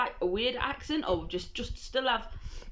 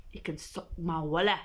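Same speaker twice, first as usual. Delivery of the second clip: lightly voiced lower Scottish accent; 4 semitones lower than usual. Shown as a demonstration. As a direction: try a Scottish accent, half laughing. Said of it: "Try and do it in a Scottish accent".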